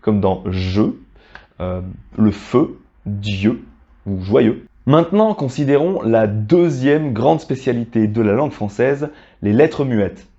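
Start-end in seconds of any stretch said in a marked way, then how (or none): 0.5-4.7 je, feu, Dieu, joyeux with tighter, closed eu; lower-pitched model of closed eu in feu, Dieu, joyeux; feu, Dieu, joyeux said with lips rounded on a closed eu; closed eu sound. Shown as a demonstration. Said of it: "C'est un peu plus fermé".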